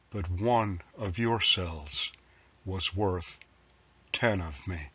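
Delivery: measured poem recital with pauses between lines; poetry reading. Acted. Poet reading a sampler of newer work to listeners, measured recital. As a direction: recite line by line, each phrase falling to a close. Poet reads own poems aloud.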